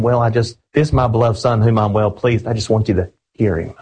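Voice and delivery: a half-hearted mumbled version; timid shrug of a line; mock weak delivery. Shown as a demonstration. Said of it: "That's not the way he talks".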